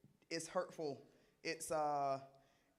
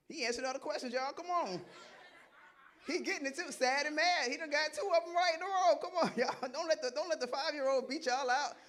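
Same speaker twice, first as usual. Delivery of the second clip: loud, high, excited ribbing through laughter; real laughing hype, pitched way up; laughing, teasing; 10 semitones higher, 6 dB louder than usual. Real, not acted. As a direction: egg the room on, loudly amused. Teases adults as child outdoes them.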